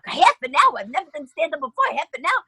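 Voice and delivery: high, stunned repeat of the question; can't believe the request; shocked disbelief. Retold or imitated. Asked to do thirty minutes.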